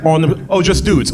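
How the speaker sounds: ordinary delivery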